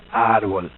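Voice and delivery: low "árbol" with R before B; demonstrated consonant cluster. Shown as a demonstration. Teacher repeating a Spanish example, low "árbol". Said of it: "otra vez".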